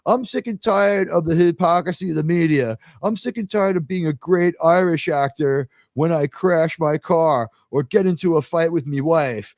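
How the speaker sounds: lightly imitated Irish rant; fed-up actor with a touch of Irish; mock tirade in a mild Irish accent; Richard Harris's Irish accent. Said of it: "you know, with the accent".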